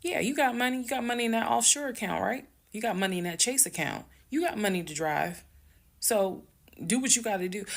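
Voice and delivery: half-strength retold yelling; mock yell. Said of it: "I'm yelling".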